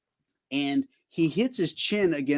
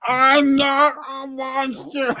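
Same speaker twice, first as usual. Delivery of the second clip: much higher, slow, strained cry; Elephant Man parody; 10 semitones higher, 5 dB louder, much slower than usual. Acted. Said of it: "like the Elephant Man".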